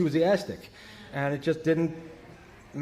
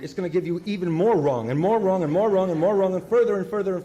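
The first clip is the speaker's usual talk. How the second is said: building louder repetition; 3 semitones higher, 5 dB louder than usual. Real, not acted.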